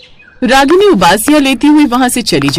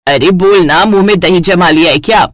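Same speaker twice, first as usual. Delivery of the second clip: impatient mother; 3 semitones lower than usual. Acted. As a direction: nudge her to speak. Mother prods daughter.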